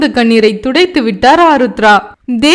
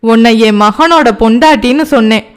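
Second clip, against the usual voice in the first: lower, measured insistence on "உன்னை என் மகனோட பொண்டாட்டின்னு சொன்னேன்"; firm emphasis; 3 semitones lower than usual. A narrator's reading. Mother confirming to Ovia she is her son's bride, firmly. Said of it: "அழுத்தமாய் சொன்னார்".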